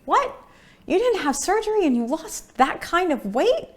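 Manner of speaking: mock astonishment; lightly voiced stunned friend; shocked disbelief. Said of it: "people astonished at no surgery".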